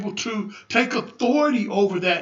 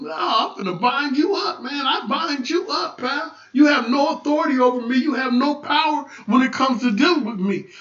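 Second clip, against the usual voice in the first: raised, forceful warding-off; defiant rebuke; 3 semitones higher than usual. Acted. Believer binding up somebody messing on the job, defiant. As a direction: stand your ground and lay down authority. Acts out rebuking a troublemaker at work.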